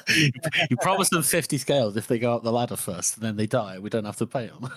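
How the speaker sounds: amused, half-laughing retelling; laughing through it. Retold or imitated. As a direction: chuckle as you quote the callous plan. Quoting mercenary captain, laughing.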